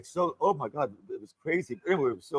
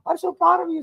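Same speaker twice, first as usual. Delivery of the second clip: retold gushing praise; 4 dB louder than usual. Friend's gushing praise at show's end.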